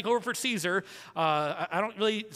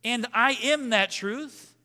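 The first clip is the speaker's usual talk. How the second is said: slow and higher, declaring each phrase; voicing Jesus; 6 semitones higher, slower than usual. Preacher voicing Jesus to the congregation, slow and declarative. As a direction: lay it out slowly like a proclamation. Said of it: "Jesus says".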